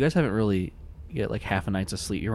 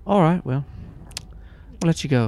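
phone caller; 6 semitones higher, 5 dB louder than usual. Acted.

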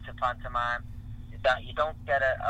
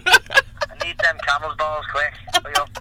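mock urgency; 3 semitones higher, 6 dB louder, slower than usual. Jokey urgent plea.

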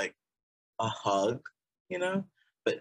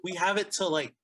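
laughing; 10 semitones higher, 4 dB louder than usual. Real, not acted. Laughing about May snow.

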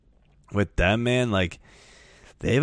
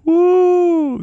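loud whoop; 9 dB louder than usual. Real, not acted. Reacting to brutal prediction.

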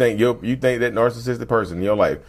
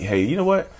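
mock sweet praise. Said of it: "find a way to paint it in a good light".

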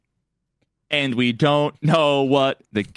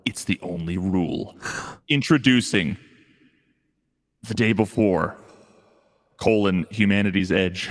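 horror trailer voice; 4 semitones lower than usual. Pretend. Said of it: "stock trailer voiceover".

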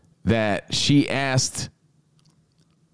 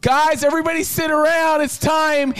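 very high, sing-song; hammed-up cheery mother; mock mom. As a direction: call the kids over like a party mom. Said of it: "then the mom's like".

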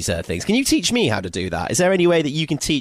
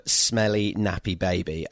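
put-on horrid kid voice; 5 semitones lower, 5 dB quieter, slower than usual. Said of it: "my most horrid Henry impression voice".

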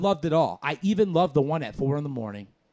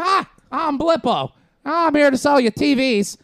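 a goofy ad guy pushing TVs, pitched way up; fake TV pitchman; 12 semitones higher, 9 dB louder than usual. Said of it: "like that. Just fake".

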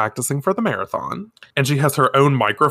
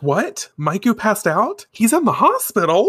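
shocked disbelief; 9 semitones higher than usual. Acted. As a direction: voice climbing in mock shock. Reacting to shocking news.

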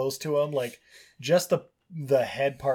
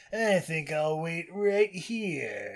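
stubborn character; 4 semitones higher, 3 dB quieter, much slower than usual. Acted. Retelling a character's stubborn reply.

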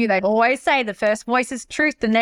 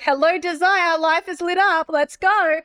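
mock excitement; 7 semitones higher, slower than usual. Mocking a switched-on instant bliss.

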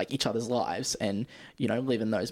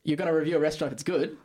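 incredulous; 4 semitones higher, faster than usual. Real, not acted. Incredulous repeat of answer.

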